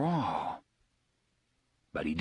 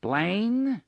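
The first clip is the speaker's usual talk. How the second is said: calling out; 10 semitones higher, 4 dB louder than usual. Acted. Calls again into speaker.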